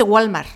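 "Walmart" said the Mexican Spanish way; loud, Hispanicized "Walmart"; Spanish pronunciation. Shown as a demonstration. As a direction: say "Walmart" with Spanish vowels and no final t. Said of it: "así es como lo decimos en español".

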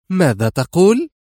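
high, eager rising question; curious, leaning in; eager ask. Acted. Woman asks her rescuer, high and eager. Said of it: "سألته في لهفة".

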